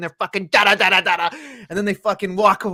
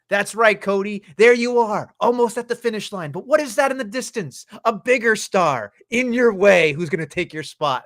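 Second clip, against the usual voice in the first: wrestling promo; 5 semitones higher than usual. Retold or imitated. Host imitating the Rock taunting Cody in a promo, higher hyped voice. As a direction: sell it like a heel cutting a promo. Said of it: "put it into a promo when he was just like".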